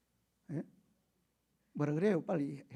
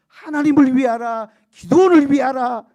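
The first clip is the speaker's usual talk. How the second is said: loud, high rallying shout; battle cry; 6 semitones higher, 16 dB louder than usual. Retold or imitated. Preacher voicing Gideon's men shouting with trumpets, battle cry. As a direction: cry it out like a war cry. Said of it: "외쳤어요".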